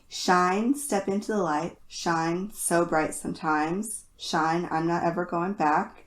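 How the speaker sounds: earnest, steady reading of song lyrics; serious lyric reading. Acted. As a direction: read it like a solemn poem. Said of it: "I'm going to attempt to be as serious as possible".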